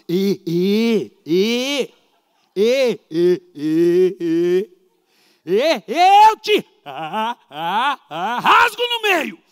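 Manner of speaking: angry father stuck in a stammer, imitated for laughs, loud; stuttering father. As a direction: hammer the ê over and over, then burst out the threat. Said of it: "É desse jeitinho".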